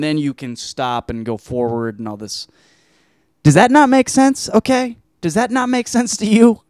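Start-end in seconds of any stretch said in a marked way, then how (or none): 3.4-6.6 incredulous. Real, not acted. Asks listener, pitch way up.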